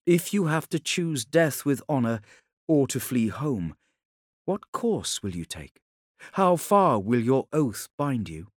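lightly voiced woman, probing; challenging Ilya. Ilya asks how far the Khan's oath binds him, probing and earnest. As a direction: press him with earnest questions.

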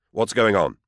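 loud urgent question. Acted. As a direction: press them for answers. Demanding answers from servants.

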